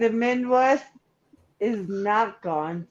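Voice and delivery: talking through hiccups; words broken by hiccups. Real, not acted. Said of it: "I have the hiccups".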